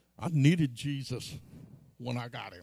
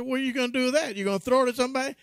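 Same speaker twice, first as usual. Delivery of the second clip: incredulous dad; 9 semitones higher, 7 dB louder, much faster than usual. Retold or imitated. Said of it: "He said".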